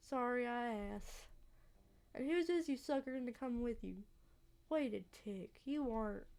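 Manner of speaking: attempted Southern local voice; Southern accent, wary old acquaintance. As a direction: lightly grumble in a Southern accent. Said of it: "a southern accent".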